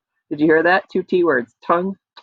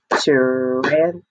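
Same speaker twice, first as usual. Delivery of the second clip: "Tarantula" in four slow separated beats; syllable by syllable; 3 semitones lower, 3 dB louder than usual. Shown as a demonstration. Teacher repeats the long one for clapping, "Tarantula" in four beats. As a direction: stretch "Tarantula" out as ta, ran, tu, la. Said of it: "Are you ready to clap it?".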